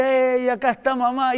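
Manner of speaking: a hint of a mother calling "acá está mamá" to her chicks; mother hen calling her chicks. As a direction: call the chicks in like a mama hen, only lightly voiced. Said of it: "como la mamá que viene y dice".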